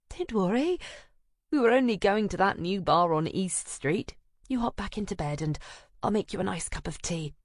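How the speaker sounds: breezy reassurance; Anna sending her friend back to bed; fussing friend. Acted. Anna soothing her sick friend.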